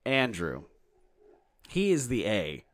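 punched-up introduction, names set apart; show announcer. Acted. Host introducing his co-host and himself, mock-grand announcer.

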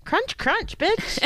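playful crunch voice. Pretend. Playful snack voice.

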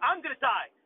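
high, loud cry of doom; panicked wail. Retold or imitated. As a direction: wail it like you're sure you'll die. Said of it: "And I'm like".

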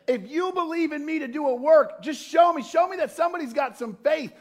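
lightly voiced God, still in the high loud preach; God's challenge, thrown out with preaching fire; voicing God. Pastor voicing God's challenge to the church, loud and high. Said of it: "when God says".

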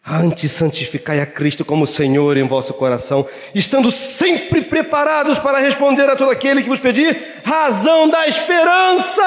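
building from plain to a high laughing shout; full of hope. Shown as a demonstration. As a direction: read it bursting with hope. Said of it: "quando você tá cheio de esperança".

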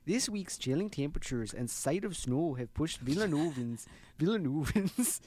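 put-on a light Minnesota accent on the read. Host reading the article to listeners, in a light Minnesota accent. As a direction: read it with a hint of Minnesota vowels. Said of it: "hitting the Minnesota one".

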